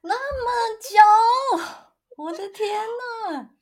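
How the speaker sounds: high-pitched drawn-out disbelief; squealed, incredulous reaction; astonished. Real, not acted. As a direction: exclaim in real amazement. Astonished at how long it lasted.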